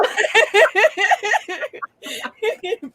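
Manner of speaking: long high laugh. Real, not acted. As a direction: dissolve into laughter. Laughing at own accent.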